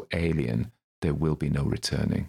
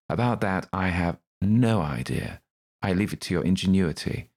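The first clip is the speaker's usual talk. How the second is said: Crowley's voice; 4 semitones higher than usual. Acted. Crowley shrugging off.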